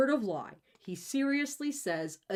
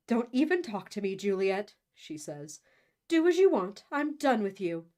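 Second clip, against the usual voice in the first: angry mother; 3 dB louder than usual. Acted. Mother storms out on Juliet.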